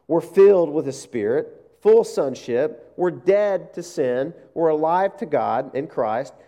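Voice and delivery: slow, deliberate proclamation of promises; preaching proclamation. Acted. Preacher listing the gospel promises, slow and deliberate. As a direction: lay each promise down slowly.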